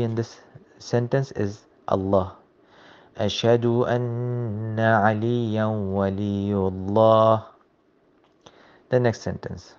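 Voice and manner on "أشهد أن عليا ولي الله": chanted "أشهد أن عليا ولي الله"; recited adhan line. Shown as a demonstration. Teacher chants the adhan line for students. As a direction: recite it as the call.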